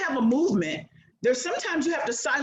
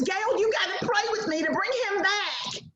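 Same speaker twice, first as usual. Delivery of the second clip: pleading friend; 9 semitones higher than usual. Retold or imitated. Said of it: "She says".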